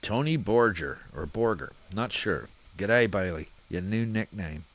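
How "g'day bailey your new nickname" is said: lightly put-on, amateur Aussie accent; terrible Aussie accent. Podcaster reading a listener's greeting in a poor Aussie accent. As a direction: attempt a bad Australian accent. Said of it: "My fucking terrible Aussie accent".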